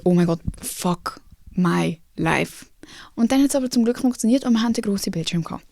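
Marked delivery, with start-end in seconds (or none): 0.0-2.7 slow, drawn-out "fuck my life"; despairing groan. Retold or imitated. Speaker panicking about the missing screen, slow and despairing. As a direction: let it sag out like a defeated sigh. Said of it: "dort bin ich wirklich so gewesen".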